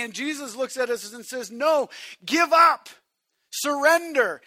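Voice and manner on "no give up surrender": loud. Acted. Voicing Jesus, shouted command.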